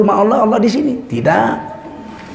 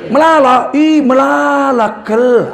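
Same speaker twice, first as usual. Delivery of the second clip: Karo exclamation; 5 semitones higher, slower than usual. Retold or imitated. Preacher imitating Karo speakers saying very many. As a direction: call out melala, kel in Karo style. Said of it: "Kalau bahasa Karo".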